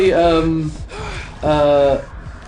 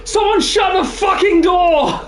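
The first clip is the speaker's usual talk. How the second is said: yelled; slower than usual. Retold or imitated. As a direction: yell it across the house. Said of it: "my uncle yelled out".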